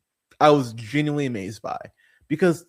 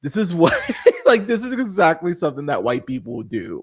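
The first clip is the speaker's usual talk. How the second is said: amused mock thought; 4 dB louder than usual. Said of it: "I was like".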